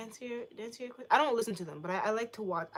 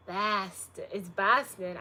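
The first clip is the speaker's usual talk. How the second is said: exaggerated Boston vowel; mock Boston accent; slower than usual. Streamer mocking how Bostonians talk, in a Boston accent. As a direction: put on a Boston accent briefly. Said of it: "I do not talk like that".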